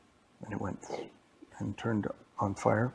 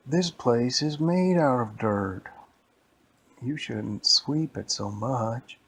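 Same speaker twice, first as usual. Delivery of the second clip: slow, loud storybook complaint; slow mock exasperation; exasperated complaint; 4 dB louder, slower than usual. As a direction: complain slowly, leaning on each word.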